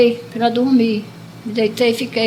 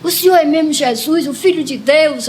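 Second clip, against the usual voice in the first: higher, emphatic question, moved but not crying; retold tearful plea; 5 semitones higher, 3 dB louder than usual. Dreamer asks Jesus who he is, retold with emotion. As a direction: retell an overwhelmed, pleading question. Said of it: "eu chorando muito, muito emocionada".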